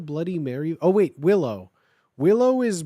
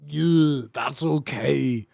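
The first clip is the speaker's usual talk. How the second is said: slow, low, deflated reply; a hint of depressed boy; Draco sad; 4 semitones lower, much slower than usual. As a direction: let it sag.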